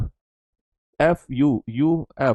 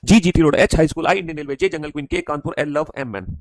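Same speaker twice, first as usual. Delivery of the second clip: reading aloud loudly; 4 dB louder, slower than usual. Shown as a demonstration. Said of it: "वरना जोर-जोर से बोलकर पढ़ना".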